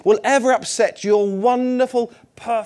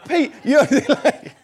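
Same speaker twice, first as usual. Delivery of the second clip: laughing; 7 semitones higher, 6 dB louder, slower than usual. Real, not acted. Teasing a congregant by name.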